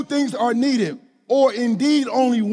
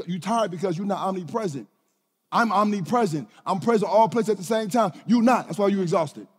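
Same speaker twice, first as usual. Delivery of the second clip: God answering; 4 semitones lower, 4 dB quieter than usual. Retold or imitated. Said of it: "he said".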